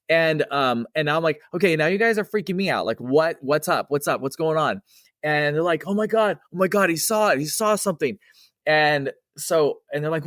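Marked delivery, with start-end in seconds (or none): 1.5-4.8 retold nervous question. Narrator growing nervous. 5.9-8.2 retold excited gasp. Coworkers realizing he saw ghost.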